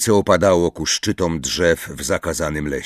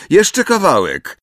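high, drawn-out call; calling out loudly; 10 semitones higher, 4 dB louder than usual. A narrator's reading. Hermione calls back to Umbridge, loud call. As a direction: call it back over your shoulder. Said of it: "zawołała głośno przez ramię".

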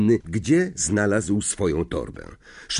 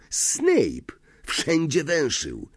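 sudden high exclamation; exclaiming; 6 semitones higher, much slower than usual. A narrator's reading. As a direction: blurt out a warning name. Ron exclaims about Snape.

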